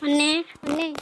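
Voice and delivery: loud call for brother. Acted. Sister arrives calling her brother.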